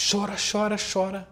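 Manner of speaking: chora repeated with the pitch jumping high; rising repetition. Real, not acted. Explaining how an unanswered baby cries harder, rising emphasis.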